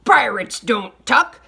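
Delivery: scandalised pirate chorus; crew cry. A narrator's reading. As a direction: cry it out in indignation. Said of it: "the crew cried".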